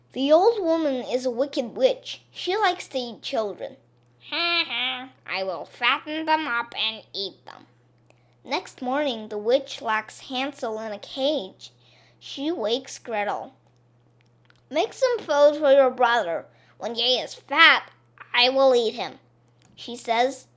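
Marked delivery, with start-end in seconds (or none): 4.3-7.7 chuckling witch aside; gloating witch. Acted. 14.7-19.2 loud, harsh witch order; bossy witch. Acted.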